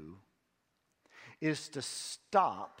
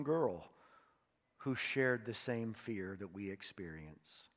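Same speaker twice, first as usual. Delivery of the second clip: hushed, earnest pastoral prayer. Acted. Pastor leads congregation in prayer.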